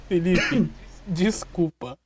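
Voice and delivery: slow, mock-sorry reading; slow apologetic text. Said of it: "Ele falou assim, ó".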